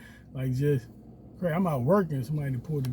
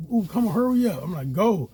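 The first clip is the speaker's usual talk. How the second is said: urgent; 4 semitones higher, 4 dB louder than usual. Retold or imitated.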